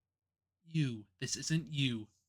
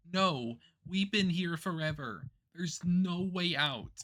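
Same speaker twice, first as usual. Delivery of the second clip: despairing; 5 semitones higher, 4 dB louder, slower than usual. Acted. Karma despairing after endless loops.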